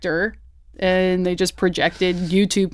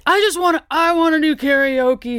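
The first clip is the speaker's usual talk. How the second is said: put-on drunk whine; 8 semitones higher, 3 dB louder than usual. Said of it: "everybody was all, like, drunk".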